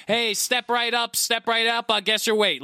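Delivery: loud, slow carnival barker call; snake oil seller. Retold or imitated. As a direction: bellow it like a fairground huckster.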